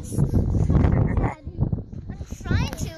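being tickled. Real, not acted. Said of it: "You're just tickling me".

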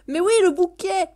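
high, loud burst on "le bouquet"; delighted exclamation. Real, not acted. (exclamation ravie)

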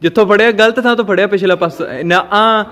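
loud, urgent push-start instructions; loud coaching. Real, not acted. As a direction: urge her on, firmly. Father coaching loudly. (ਉੱਚੀ ਆਵਾਜ਼ ਵਿੱਚ ਹੱਲਾਸ਼ੇਰੀ)

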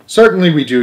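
put-on children yelling. A narrator's reading. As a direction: shout back as a class. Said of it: "yelled one and all".

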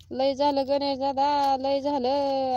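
playful loud enough-already; loud mock exasperation. Real, not acted. Teasing Ganesh dada to stop.

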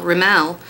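Rimmel said with a fancy stress on the end, RimMEL; affected fancy Rimmel; fancy pronunciation. Shown as a demonstration. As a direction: Rimmel drawn out to sound fancier. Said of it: "It's just the way I say it, 'cause I think it sounds fancier".

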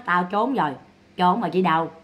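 lightly voiced dead brother, low and soft; dead man's reply. Speaking as the dead brother hiding from Sáu, low mock reply. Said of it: "Cậu Năm nói".

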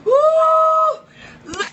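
loud high whoop of delight; cheering whoop. Real, not acted. Host cheering after the final punchline, loud whoop. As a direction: whoop for the comedian.

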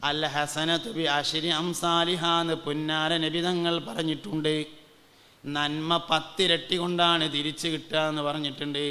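level preacher's chant, last word drawn out; sing-song preaching. Acted. Chanted preaching within the story.

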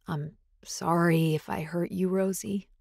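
a hint of a husky alpha apologizing; alpha apology. Chris apologizes.

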